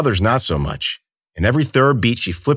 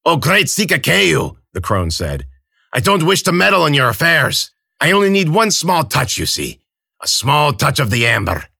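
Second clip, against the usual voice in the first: put-on fawning old crone; 7 semitones higher, 3 dB louder than usual. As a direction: flatter him like a sly old hag.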